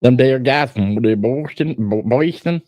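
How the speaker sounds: hammed-up, fumbling Boston accent; mock the Boston accent, stumbling on "Boston"; weird Boston accent. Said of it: "They got the weirdest accent".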